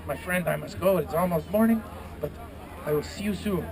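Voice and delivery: lightly voiced griffin with French-Spanish accent; hint of mock French-Spanish. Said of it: "French, Spanish thing going on there".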